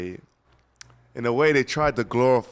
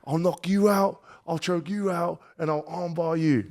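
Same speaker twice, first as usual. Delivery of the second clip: boastful threat; 7 semitones higher than usual. Retold or imitated. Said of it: "He's like".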